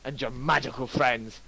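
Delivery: high shouted threat that fades; parting threat. Acted. Lucius storming out, threatening Garrick in a high shout. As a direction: spit out a vengeful threat. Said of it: "turns about and goes".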